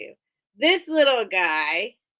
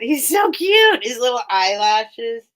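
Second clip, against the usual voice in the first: gushing; 6 dB louder than usual. Real, not acted. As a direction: coo over him like a toy you adore. Gushing over a wooden figure.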